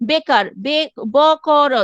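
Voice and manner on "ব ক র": ব ক র said as three separate sounds, each one clear; spelled out syllables. Shown as a demonstration. Teacher shows the class each sound of ব ক র, one by one. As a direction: break ব ক র into three distinct sounds. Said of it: "তিনটা উচ্চারণ হচ্ছে".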